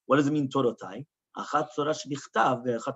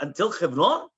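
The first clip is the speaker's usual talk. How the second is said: "Until Chevron" with a questioning rise; rising question on "Chevron"; continuing the question; 2 semitones higher, 3 dB louder than usual. Acted. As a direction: ask "Until Chevron", lifting the end. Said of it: "gonna continue with the question".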